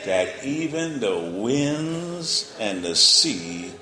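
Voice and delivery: very slow, marveling reading; awed scripture reading. Acted. Astonished men marveling at Jesus, read very slowly. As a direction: let the wonder stretch out.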